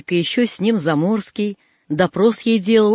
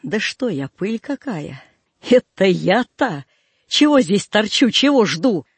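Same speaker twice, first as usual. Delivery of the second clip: threatening. Acted. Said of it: "будто кому грозится".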